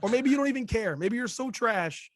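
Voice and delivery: hoarse from a cold; lost voice, raspy and strained; raspy whisper. Real, not acted. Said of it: "this is what you get".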